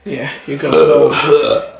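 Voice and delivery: slow, loud wrestler promo voice; The Rock impression. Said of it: "what The Rock is fucking cooking".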